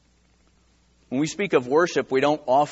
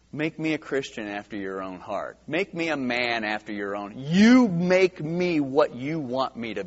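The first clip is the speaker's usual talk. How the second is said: earnest prayer; 3 semitones lower than usual. Retold or imitated. Pastor retelling his prayer to the Lord, humble and hushed.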